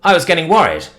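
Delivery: lightly voiced country man, relieved and neighbourly; a touch of folksy concern; friendly country fellow. Dan greeting Tibbs who wandered off, lightly voiced country man.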